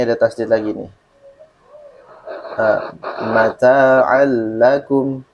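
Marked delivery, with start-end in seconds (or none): 3.3-5.2 slow MATA'AL LAKUM, leaning long on a doubled L; L doppia. Shown as a demonstration. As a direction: recite it slowly, hold the L before AKUM. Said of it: "Harusnya kan dua lam".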